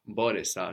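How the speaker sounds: Μπόρεσα with its first syllable stressed; accent third from end. Shown as a demonstration. Teacher confirming past tense accent, Μπόρεσα stressed on first syllable. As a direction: stress Μπό, leaving -ρεσα light in Μπόρεσα. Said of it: "accent third from the end".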